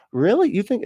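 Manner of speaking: mock incredulous. Mocking imagined pundits.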